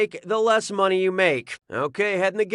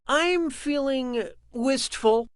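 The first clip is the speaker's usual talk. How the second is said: wistful; 6 semitones higher, slower than usual. Acted. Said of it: "waxing nostalgic".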